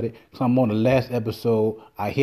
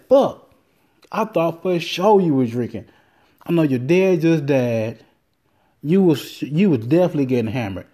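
buddy's voice; 3 semitones higher than usual. Retold or imitated. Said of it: "That's what he said".

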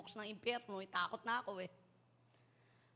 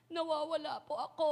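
put-on lost child; 4 semitones higher, 4 dB louder than usual. Lost child answers policeman.

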